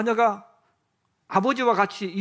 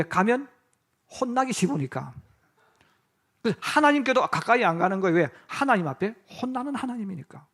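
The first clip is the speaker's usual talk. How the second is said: ordinary talk, nothing marked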